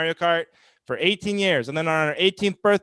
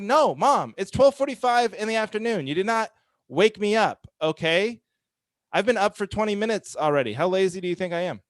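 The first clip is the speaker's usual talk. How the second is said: higher, exasperated son insisting he's up; indignant retort; 4 semitones higher than usual. Retold or imitated. Son answering mom's phone apology, exasperated and indignant. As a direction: protest with mock outrage.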